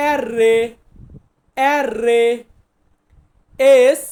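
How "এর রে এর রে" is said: এর রে with a rolled r; Italian letter name. Shown as a demonstration. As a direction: say এর রে, rolling the r. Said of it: "আরকে আমরা বলবো". (Italian উচ্চারণে এর রে)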